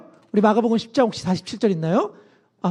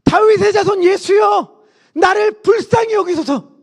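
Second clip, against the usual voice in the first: loud, high, drawn-out plea; crying out; 8 semitones higher, 4 dB louder than usual. Acted. Blind Bartimaeus calls to Jesus for mercy, crying out loudly. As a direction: shout it out slowly, pitched high. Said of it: "소리를 지르기 시작했습니다".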